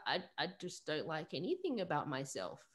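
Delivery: softened, retold vulnerable confession; mildly tearful, voice softened; tearful admission. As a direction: let it come out small and quiet. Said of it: "both just tearing up".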